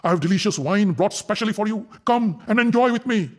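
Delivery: overjoyed, oily and eager; overjoyed leer. A narrator's reading. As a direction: Kichak greeting Draupadi at his door, gloating. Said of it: "Kichak was overjoyed".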